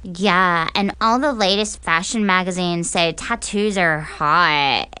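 a hint of a nasal socialite; nasal Paris Hilton voice. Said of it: "in this really nasally voice that sounded a lot like Paris Hilton".

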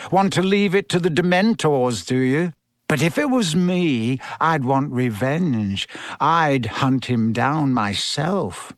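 a hint of a smug bully; lightly voiced sneering schoolboy. Malfoy taunts Harry about Black, mildly sneering. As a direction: needle a rival with mild disdain.

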